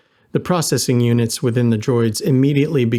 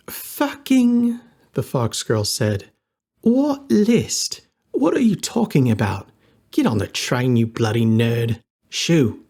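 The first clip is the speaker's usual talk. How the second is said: put-on irritated fox girl; slower than usual. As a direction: shoo him off impatiently.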